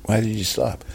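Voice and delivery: startled director in a put-on American accent; David Fincher. Director halting the actor, puzzled American accent. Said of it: "This isn't an accurate impression of David Fincher".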